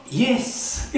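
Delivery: high emphatic yes; daring affirmation. Retold or imitated. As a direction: fling out a bold yes. Missionary's bold answer to chief.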